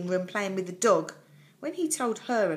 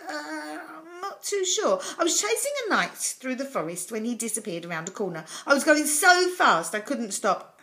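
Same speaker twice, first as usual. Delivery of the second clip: sheepish, higher-pitched dragon explaining itself; embarrassed; 6 semitones higher, 4 dB louder than usual. A narrator's reading. Dragon explains to Jonathan how it got in, embarrassed. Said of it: "The dragon looked embarrassed".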